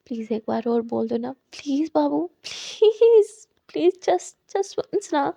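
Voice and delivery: soft pleading. Acted. Character keeps begging softly.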